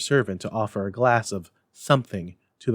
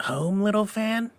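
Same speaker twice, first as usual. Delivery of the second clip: higher, wondering schoolboy; boy voice; 11 semitones higher than usual. A narrator's reading. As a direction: ask it as a surprised young boy. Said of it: "returned the boy".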